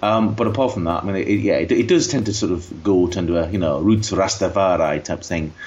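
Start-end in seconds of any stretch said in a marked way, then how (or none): 3.5-5.5 put-on slow, drawn-out Yorkshire accent. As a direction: slip into a broad Yorkshire accent. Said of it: "Why did I say that in a Yorkshire accent?".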